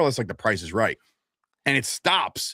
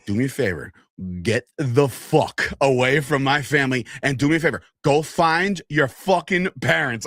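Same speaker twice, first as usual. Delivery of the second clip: livid; 2 semitones higher than usual. Retold or imitated. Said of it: "I was livid".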